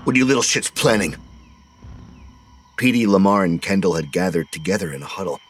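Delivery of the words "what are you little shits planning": barked. A narrator's reading. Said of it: "he barked".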